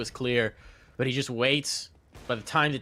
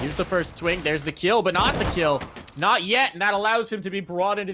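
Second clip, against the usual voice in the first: rising, louder play-by-play call; esports caster; 6 semitones higher, 5 dB louder than usual. Real, not acted. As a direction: call the swing as it happens.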